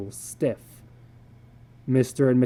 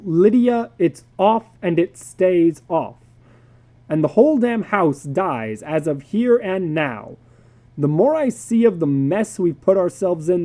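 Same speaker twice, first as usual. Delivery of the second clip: firm refusal; 4 semitones higher, 5 dB louder than usual. Acted. Father refuses firmly.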